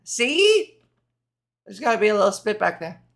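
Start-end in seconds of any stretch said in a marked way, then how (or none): 0.0-0.8 gargly demo. Shown as a demonstration. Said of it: "gargle it a little to do it right".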